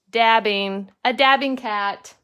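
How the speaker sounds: loud delighted exclaim; excited. Real, not acted. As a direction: cheer the dabbing cat. Mom delighted by puppet dab.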